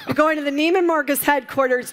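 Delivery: mock-pleading while laughing; retelling friends with a laugh, voice up. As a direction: friends teasing through a laugh. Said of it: "They were like".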